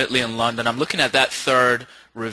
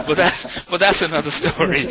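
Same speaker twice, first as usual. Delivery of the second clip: real chuckle through the words; laughing; 4 semitones higher than usual. Real, not acted. Host teasing the presenter about his search, laughing. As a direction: talk through rising laughter, a little higher.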